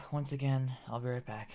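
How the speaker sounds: sigh, then drag it out wearily; exasperated sigh. Real, not acted. Frustrated retry after repeated failures.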